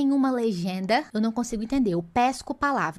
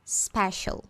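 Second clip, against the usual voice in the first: "It was special" very slow and higher; slow demo; 6 semitones higher, much slower than usual. Shown as a demonstration. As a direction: drawl it out as an example. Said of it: "ela foi de tal forma".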